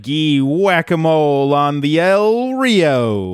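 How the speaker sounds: slow, mangled fake Spanish accent; lightly hammed-up bad Spanish accent. Bender reading his lines in a botched Spanish accent. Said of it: "flawless Spanish accent".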